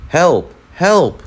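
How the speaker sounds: high storybook cries for help. A narrator's reading. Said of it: "Kelly's yelling grew louder".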